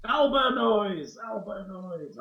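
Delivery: growled monster roar, slow; owlbear noise. Acted. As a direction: roar like a big beast. GM voices the monster.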